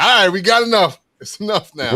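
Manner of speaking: high, loud mock exasperation; fed-up protest. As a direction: imitate a town calling a halt. Acting out a town fed up.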